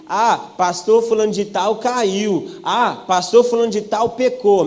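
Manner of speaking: gossiping churchgoer. Retold or imitated. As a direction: drag it out like a scandalized gossip. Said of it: "Quando você ouve falando assim".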